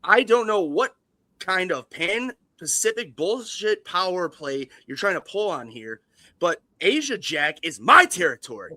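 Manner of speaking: hammed-up tirade of a crazed studio exec; Les Grossman impression. Impersonating Les Grossman threatening a rival at length. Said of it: "my best Les Grossman impersonation".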